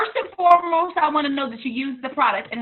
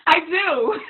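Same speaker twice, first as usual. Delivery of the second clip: laughing; 3 semitones higher than usual. Real, not acted.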